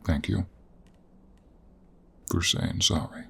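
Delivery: quiet, earnest gratitude; sincere thanks. Acted. Accepts an apology.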